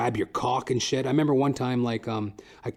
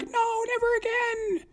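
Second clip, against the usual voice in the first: put-on very high, slow child wail; a terrified kid refusing; high mock child wail; little girl voice; slower than usual. Girl fleeing library.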